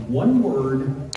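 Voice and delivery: slow, word-at-a-time delivery; angry texting. Retold or imitated. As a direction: space it out like a furious text. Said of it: "when they get really angry".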